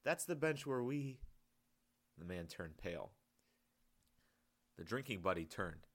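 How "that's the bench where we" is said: hint of a smile. A narrator's reading. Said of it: "with a hint of a smile in his voice".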